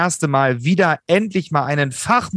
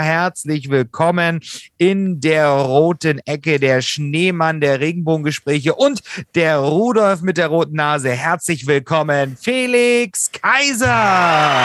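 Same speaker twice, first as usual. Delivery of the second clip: brash fight promoter hype. Acted. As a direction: ring announcer calling the fighter. Boxing intro "in der roten Ecke. (Ringsprecher kündigt den Kämpfer an, langsam gedehnt)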